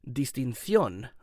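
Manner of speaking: "distinción" with the c said as th, dis-tin-THYON, slowly; Castilian lisp. Shown as a demonstration. The speaker shows the Spain accent: "distinción" with a th. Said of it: "So I will be thithing on the, uh, C's and Z's".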